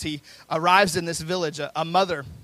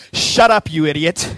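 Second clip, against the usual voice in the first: mock furious shout; 13 dB louder, slower than usual. Minister turns on the man who interrupted, acted shout. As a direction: shout him down, acting it out. Minister snaps back at heckler.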